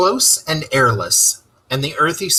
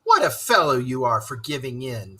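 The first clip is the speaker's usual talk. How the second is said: calmly. Acted. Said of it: "said the rat calmly".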